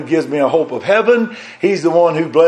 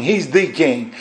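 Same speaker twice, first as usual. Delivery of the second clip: "the" stressed, then a soft, lower fall on "king"; 4 semitones lower, 5 dB quieter, slower than usual. Shown as a demonstration. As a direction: set apart "the" king. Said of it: "He's not just a king".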